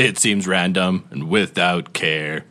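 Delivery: slow, theatrical poem reading; slow rhyming recital. Acted. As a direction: recite it like a carnival barker. Reads rhyming game intro.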